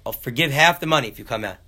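acted-out pleading offer; loud bargaining offer. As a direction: haggle through a closed door. Bargaining through the door.

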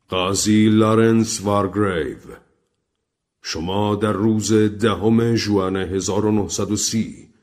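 slow, formal pronouncement of charges; accusing recorded voice. Acted. Unseen voice charges the guests with murder, solemn and accusing. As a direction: read the indictment slowly, name by name.

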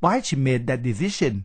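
"why she made that decision" slow, with exaggerated word tones; English intonation demo. Shown as a demonstration. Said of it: "จะเป็นเสียงโทและเสียงตรีเป็นหลัก". (สาธิตเสียงสูงต่ำ "why she made that decision" ช้าๆ)

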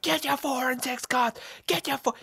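put-on calling to kids like a stadium hawker; mock screaming. Handing out cards outside the MCG, high hawker's call. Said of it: "I was, like, screaming".

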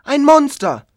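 high, loud shout of alarm; frightened cry. Retold or imitated. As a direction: cry out in fear. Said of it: "Immer nur".

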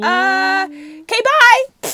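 quick dismissive goodbye, rising high on bye; abrupt brush-off. Retold or imitated. Driver dumping his friend at the curb, abrupt brush-off. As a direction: shove him out with a curt farewell. Jin abruptly kicking him out.

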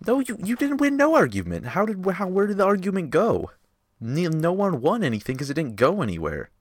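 high, loud heated protest; yelling. Real, not acted. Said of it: "me and Nolan yelling".

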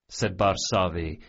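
plain reading voice

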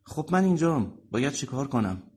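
high, stressed opening that eases slightly. Acted. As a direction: ask with a touch of nerves. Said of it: "با استرس گرهٔ کراوات".

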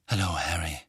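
low, grim greeting. A narrator's reading. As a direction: say it heavily, grimly. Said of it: "sagte er grimmig".

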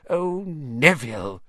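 slow weary sigh from a gran; sighing old woman. A narrator's reading. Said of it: "he heard the old woman sigh".

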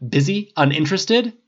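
loud, high sarcastic questions; snapping. A narrator's reading. Tony brushing off pushy Harris, snapping. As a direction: throw each word back, irritated. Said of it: "Tony snapped".

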